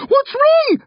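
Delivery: high, loud mum in a panic; alarmed shout. A narrator's reading. Mum calling to her screaming daughter, alarmed shout. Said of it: "Mum shouts".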